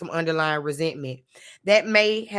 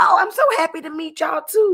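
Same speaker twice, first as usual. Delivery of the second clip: quick, very high, raised polite Southern voice; 11 semitones higher, 6 dB louder than usual. Retelling a woman greeting unexpected visitors at her house: imitating high-pitched polite lie. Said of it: "the octave of her voice was so high when she told that lie".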